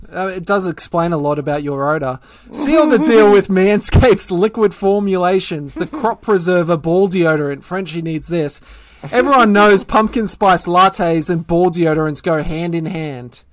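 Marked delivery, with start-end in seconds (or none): 2.5-13.4 upbeat sponsor read; podcast promo delivery. Acted. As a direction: launch into the sales pitch, then settle. Reads sponsor copy.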